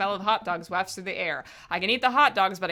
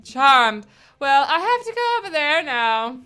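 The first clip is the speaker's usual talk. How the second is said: put-on drunk voice; 3 semitones higher, 4 dB louder, slower than usual. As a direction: slur it like a wine-soaked mom. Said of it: "I'm still gonna do the drunk voice".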